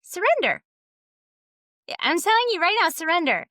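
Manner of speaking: high, insistent order to surrender; mock command. Telling someone to surrender right now, mock commanding. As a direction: push it out as a high-pitched, hurried demand. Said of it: "I can't tell someone".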